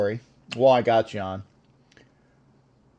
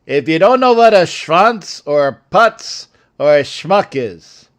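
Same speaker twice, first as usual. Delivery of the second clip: put-on old Jewish guy; 4 dB louder than usual. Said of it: "I'm saying it like an old Jewish guy".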